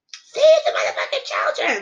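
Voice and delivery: high, strained mock scream; hammed-up shriek of a radical; mock screaming liberal. Mocking how a liberal would say it, mock screaming. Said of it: "Screaming out from the top of her lungs".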